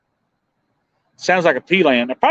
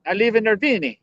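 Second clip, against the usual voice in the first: lightly hammed-up Italian accent, pitched up; mock Italian accent; 4 semitones higher than usual. Joking about the town's name, mock Italian accent. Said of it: "like, Italian or French".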